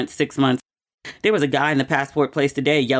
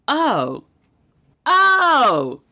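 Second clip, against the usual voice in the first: choked-up oh; 11 semitones higher, 3 dB louder than usual. Retold or imitated. Retelling crying over new passport.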